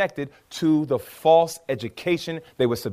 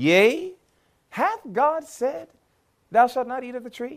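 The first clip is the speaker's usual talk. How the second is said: put-on high, sceptical, doubt-laced tone; 8 semitones higher than usual. Acting out a quoted question to show its tone, imitating a doubtful tone. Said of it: "had the essence or the sound of doubt in it".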